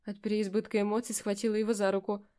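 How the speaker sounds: ordinary delivery, nothing marked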